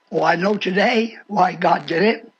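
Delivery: ordinary delivery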